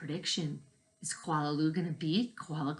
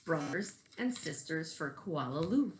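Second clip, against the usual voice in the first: story narration. Acted. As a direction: read aloud to children, gently. Reading picture book to class.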